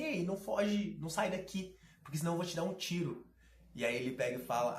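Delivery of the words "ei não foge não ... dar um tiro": lightly imitated cute girl, higher-pitched; mock threat in a slightly cutesy, raised voice; cute little threat. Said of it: "toda fofinha falando assim". (imitação leve de menina fofinha, mais aguda)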